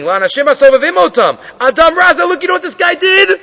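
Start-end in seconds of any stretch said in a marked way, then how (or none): 1.6-3.4 mock screaming appeal. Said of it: "the ani turns in screaming".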